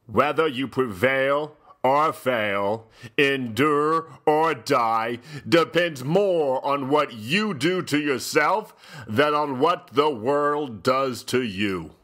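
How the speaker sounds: slow, weighty recitation; solemn quote reading. Pretend. Host reads the back-cover quote, slow and solemn. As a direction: read each phrase slowly like a grave proverb. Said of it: "I begin by reading a quote".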